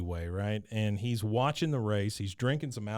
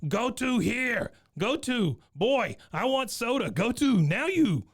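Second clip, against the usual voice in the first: put-on drunk babbling; 11 semitones higher than usual.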